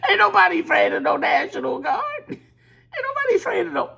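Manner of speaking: high laughing shout of defiance; high, mocking defiant yell; defiant cry. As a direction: belt it out half laughing, mocking the fear.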